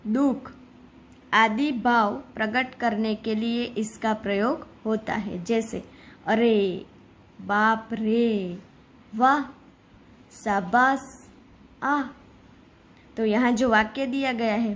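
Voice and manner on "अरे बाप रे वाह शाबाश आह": each exclamation voiced with feeling, बाप रे drawn out slowly; a lightly acted string of exclamations. Shown as a demonstration. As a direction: act out surprise, awe and praise word by word. Demonstrates exclamation words.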